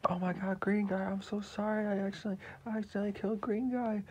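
high, loud distressed apology; fast, panicked hero voice; Papadato voice. Acted. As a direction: hero horrified at killing his friend. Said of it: "he's gonna be like".

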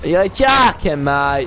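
loud, outraged disbelief; raging gamer. Real, not acted. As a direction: bark it at the screen. Angry disbelief at game.

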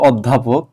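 অধ্যাপক with an open অ at the start; wrong pronunciation. Retold or imitated. Teacher repeating the student's word, mispronounced with an open vowel. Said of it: "এটাই কিন্তু তুমি ভুল উচ্চারণ করেছ".

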